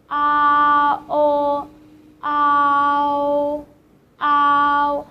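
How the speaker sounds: "ah" and "o" joined into "ow"; compound ow. Shown as a demonstration. Teacher showing learners how two sounds join, clearly. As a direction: blend two vowels quickly into one "ow". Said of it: "with a rather fast beat".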